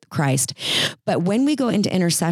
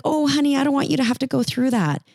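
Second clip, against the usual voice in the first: higher, quick, hammed-up coddling mother; mock coddling mom; 8 semitones higher, faster than usual. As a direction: overdo the smothering mom.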